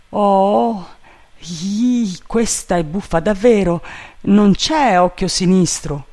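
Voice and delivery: high, loud servant voice; baffled servant Jupiter. A narrator's reading. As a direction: exclaim in comic puzzlement.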